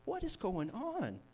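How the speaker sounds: high-pitched, slow disbelief; mock terrified. Terrified disciples watching the storm stop, acted dismay. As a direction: draw it out in acted alarm. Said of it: "They were, like, terrified".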